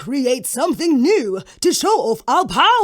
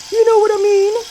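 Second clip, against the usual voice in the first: higher, louder, knowing ask; pointed question; 10 semitones higher, 6 dB louder, faster than usual. Acted. Earth spirit pressing water, higher and pointed. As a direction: lean in on it.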